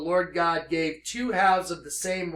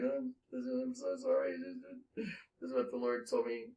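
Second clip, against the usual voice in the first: retold tearful apology; 5 semitones higher, 14 dB quieter than usual. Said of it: "I was in tears when I called her".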